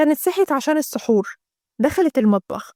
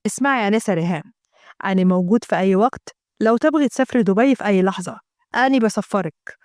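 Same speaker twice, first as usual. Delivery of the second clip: put-on lower, flirty Gulf Arabic accent; 5 semitones lower than usual. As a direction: tempt her with Dubai in a Gulf Arabic accent. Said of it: "الناس الخلايجه".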